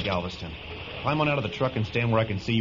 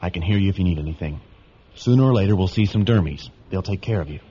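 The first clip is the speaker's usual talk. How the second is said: raised voice; 8 dB louder than usual. Acted. Boy speaks up over the truck.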